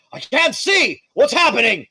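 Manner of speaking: high, frantic cry of panic; panicked. Acted. Blinded villain panicking in the darkness. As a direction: yelp blindly in sudden fear. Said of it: "You hear Lawrence's voice go".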